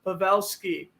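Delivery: live hockey play-by-play. Acted. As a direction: call the game like a broadcaster. Plays a hockey game call.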